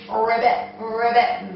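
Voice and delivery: lightly imitated frog ribbits; a hint of a frog's croak. Shown as a demonstration. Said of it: "What noises do frogs make".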